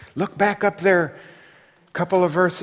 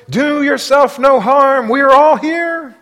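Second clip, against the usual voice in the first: calling out high and loud, slowly; loud cry; 9 semitones higher, 9 dB louder, slower than usual. Acted. Paul cries out to the jailer, loud and slow. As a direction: cry out to stop him from harming himself. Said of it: "cried out with a loud voice".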